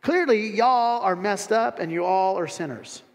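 mild mock outrage of a religious critic. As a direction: sneer down at Jesus. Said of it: "Or, or secondly".

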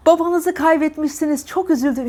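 high, happy "Babanızı"; mock upbeat tone. Shown as a demonstration. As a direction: make it sound like good news. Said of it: "işte bu ya, evet". (neşeli, yanlış tonla başsağlığı)

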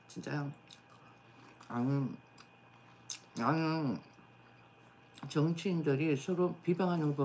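talking while chewing; words muffled by food; mouth full. Real, not acted. Seen 1: Chopsticks put food in mouth at 0.1-0.8, she chews while speaking.

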